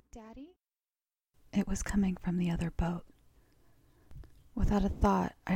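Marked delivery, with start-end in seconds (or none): 0.1-0.5 put-on faint child's call. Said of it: "a faint voice rang out".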